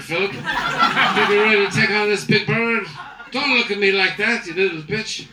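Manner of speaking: loose, laughing cabin announcement; a tipsy captain rambling to passengers; lightly voiced drunk pilot.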